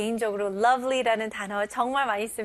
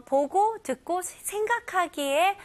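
whisper; 7 semitones higher than usual. Shown as a demonstration. Whispered example words.

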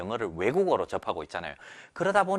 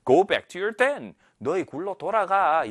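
slow, raised character read; slow character line; 5 semitones higher, 3 dB louder, much slower than usual. Shown as a demonstration. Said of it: "같이 바로 한번 만나볼까요".

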